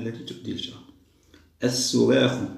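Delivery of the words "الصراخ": loud word. Shown as a demonstration. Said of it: "معنى التكلم بصوت مرتفع".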